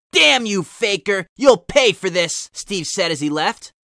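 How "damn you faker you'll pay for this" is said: angry vow. Acted. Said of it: "clenched his hands in fists of rage".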